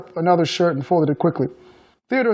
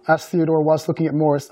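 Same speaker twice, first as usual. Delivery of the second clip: ordinary talk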